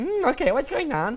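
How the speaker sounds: put-on high-pitched, puzzled girl's voice. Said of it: "she's like".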